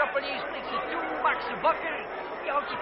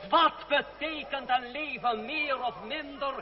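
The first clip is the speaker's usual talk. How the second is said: public oration; slower than usual. Acted. André calming the citizens, public oration. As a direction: hold the crowd's attention. Orator addresses crowd again.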